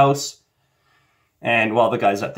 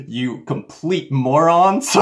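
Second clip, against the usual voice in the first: slow, drawn-out mock contempt; hammed-up scornful jeer; mocking the audience; 4 semitones higher, slower than usual. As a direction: draw out the insult, higher, on the edge of laughing. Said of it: "they're also making fun of you".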